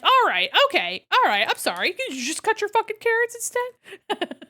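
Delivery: loud, high mock exasperation; fake-apologize with rising annoyance; arguing back at the mom over carrots, exasperated.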